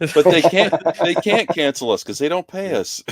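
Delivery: high, slow words through a laugh. Real, not acted. Cohost laughing at the joke about not being paid. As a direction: laugh it out, amused at the idea.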